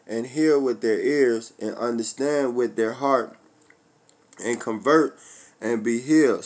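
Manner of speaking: slow measured reading of the verse; scripture reading. Acted. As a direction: lay each clause out slowly like scripture. Reads Isaiah verse ten.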